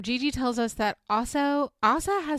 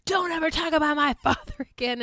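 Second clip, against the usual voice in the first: mock outrage; 6 semitones higher, 4 dB louder than usual. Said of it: "they go fucking nuts".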